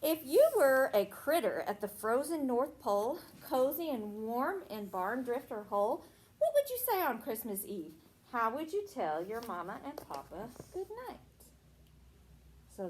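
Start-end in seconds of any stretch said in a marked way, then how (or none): 0.0-11.2 sing-song storybook reading; reading to children. Acted. Teacher reading a Christmas rhyme to a child. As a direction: read the rhyme to the little ones. Teacher reads picture book aloud.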